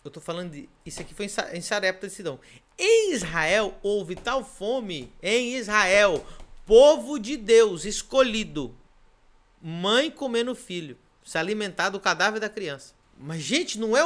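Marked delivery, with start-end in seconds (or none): 2.8-11.0 slow, weighted preaching; slow pulpit emphasis. Acted. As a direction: lean on every word like a sermon. Preacher stresses scripture.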